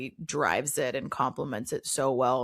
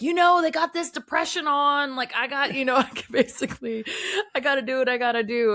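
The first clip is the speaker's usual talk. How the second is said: high, loud imitation of a folksy cousin; down-home cousin; 9 semitones higher, 4 dB louder than usual. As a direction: plead your case like a down-home country cousin. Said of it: "you know, like, down home".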